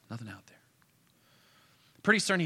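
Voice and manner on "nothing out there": a hushed repeat of the line, left in the air; quiet echo. A narrator's reading. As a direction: drop much softer, letting it hang. Echoes the empty road.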